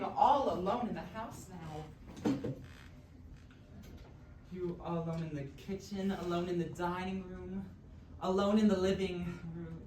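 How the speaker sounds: teasing singsong; mocking. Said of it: "That's a mocking phrase now".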